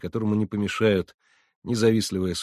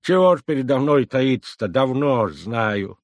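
put-on loud, high old-woman grumble, slowing at the end; grumbling old woman; 5 semitones higher, 7 dB louder than usual. A narrator's reading. Grandmother tells the couple she has long known, grumbling loudly. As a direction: grouse it out like a granny who has seen it all.

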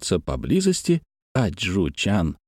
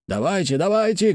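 mild shout, leaping higher on the repeat; narrated rallying cry; 8 semitones higher than usual. A narrator's reading. Fighters advancing to meet the crowd, mild rallying cry. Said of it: "кричали они".

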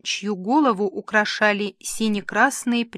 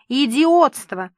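higher, louder, drawn-out squeal; shrieking outrage; 4 semitones higher, 6 dB louder, slower than usual. A narrator's reading. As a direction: spit it out as an indignant shriek. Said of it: "взвизгнул Францев". (возмущённо взвизгнув)

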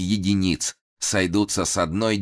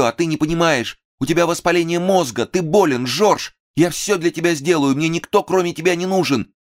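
a high, loud, overwrought plea; a passionate plea to her madman lover, high and loud; overplayed pleading monologue; 12 semitones higher, 4 dB louder than usual. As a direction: ham up the lovesick pleading. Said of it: "монолог, пожалуй, был исполнен с пережимом".

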